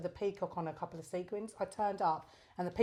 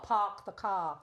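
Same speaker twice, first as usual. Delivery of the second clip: slow, imitated South African accent; 2 semitones higher, slower than usual. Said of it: "the South African accent".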